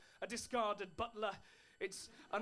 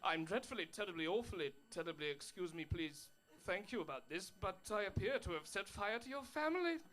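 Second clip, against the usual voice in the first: lower, fumbling mock-English apology; flustered polite apology; 3 semitones lower than usual. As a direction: trip over the pleasantries.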